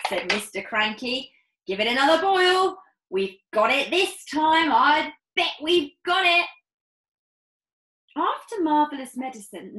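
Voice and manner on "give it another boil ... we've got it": fast, high, loud and keen; father urging the boil, fast and loud; eager father. Acted. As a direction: rush him on, sure of success. Mr Cranky eager.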